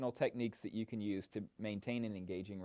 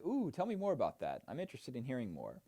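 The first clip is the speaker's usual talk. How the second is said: curious interest. Shown as a demonstration. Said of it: "express curiosity ... by saying things like".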